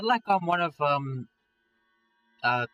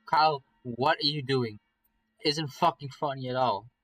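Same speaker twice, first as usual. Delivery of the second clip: firm, slightly raised reproach; exasperated scolding; 4 dB louder than usual. Acted. Alarmed friend telling Carl to stop, exasperated scolding. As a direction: scold him, drawing out the question.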